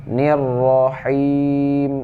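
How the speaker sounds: very slow chanted syllables; Quran recitation. Shown as a demonstration. Teacher demonstrating the verse ending, slow chanted recitation. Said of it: "mad asli panjangnya dua harkat".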